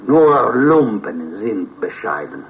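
slow, deliberate German quotation; quoting Goethe in German. Acted. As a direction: savour each German word of the quote. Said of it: "Aveva ragione Goethe".

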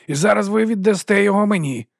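high, loud grim command; grim order. A narrator's reading. Vons grimly demanding the badge, high and loud. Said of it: "похмуро сказав Вонс".

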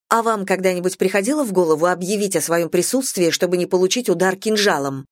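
plain reading voice

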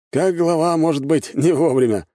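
high-pitched, lightly amused retort; a chuckle implied in a high old shopkeeper's voice; wry old man. A narrator's reading. Old shopkeeper reassures the visiting clan head, wryly amused. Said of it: "усмехнулся старик".

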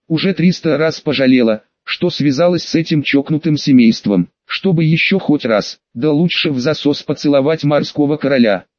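ordinary delivery

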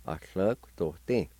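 A hlö kto tin said smoothly, run together; whole word A hlö kto tin; A hlö kto tin as one word. Shown as a demonstration. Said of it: "like this".

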